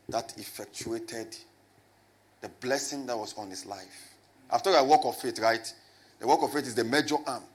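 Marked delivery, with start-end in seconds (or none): 0.1-4.1 slow and deliberate, word by word so they can write; effectuated stretched out slowly; slow dictation. Shown as a demonstration. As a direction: spell it out slowly for note-takers. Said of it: "Write it down".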